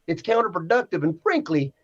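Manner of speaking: lightly put-on Southern accent; mock Southern reading voice. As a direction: read it out with a touch of Southern twang. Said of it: "I gotta throw an accent on this one".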